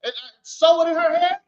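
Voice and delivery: a hint of an offended owner defending his trade; indignant restaurant owner. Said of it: "the Chinese are saying".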